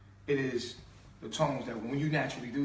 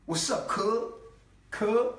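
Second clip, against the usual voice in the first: put-on New York accent; 8 semitones higher, 4 dB louder, much slower than usual. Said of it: "New York people talk like that".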